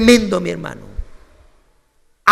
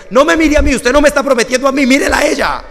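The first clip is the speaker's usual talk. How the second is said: raised, fast scolding of the couple; firm scolding; 5 semitones higher, 4 dB louder, faster than usual. Retold or imitated. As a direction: tell them off, louder and quicker. Regaña a los novios. (el pastor regaña a los novios sordos, fuerte y rápido)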